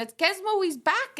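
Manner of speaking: high, bright imitation of mum announcing; mother's excited voice. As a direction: mimic mum breaking happy news. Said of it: "She went".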